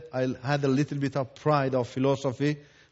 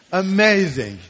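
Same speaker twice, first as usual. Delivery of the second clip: a loud, ringing "Amazing." full of wonder; excited exclamation; 4 semitones higher, 6 dB louder than usual. Real, not acted. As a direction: burst out "Amazing." in delight. Exclaims about the amazing book.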